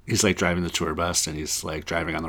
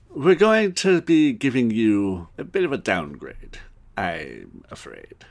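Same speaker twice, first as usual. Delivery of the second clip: lightly voiced apologetic English boss; British boss, starting high and dropping; Hugh Grant; 4 semitones higher than usual. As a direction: break bad news politely, slowing at the end. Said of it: "trying to do more of a Hugh Grant".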